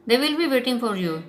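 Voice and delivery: mock him with drawn words; taunting.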